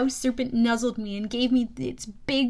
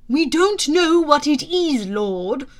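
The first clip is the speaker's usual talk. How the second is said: hippocampus voice; 2 semitones higher, 8 dB louder, slower than usual. Acted. Hippocampus voiced, speaking to hero.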